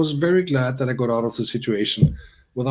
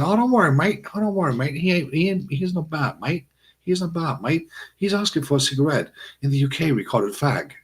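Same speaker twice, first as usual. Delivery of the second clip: high-pitched imitation British accent; higher British voice, placating; British colleague; 6 semitones higher than usual. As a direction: play a British mate smoothing things over. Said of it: "his colleague who stood beside him turned out to be British".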